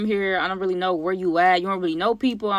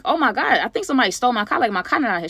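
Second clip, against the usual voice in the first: higher, hurried alarm; retold panic, pitched up and rushed; mild panic; 4 semitones higher, faster than usual. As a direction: blurt it out fast and high. Acts out reporting a stolen car.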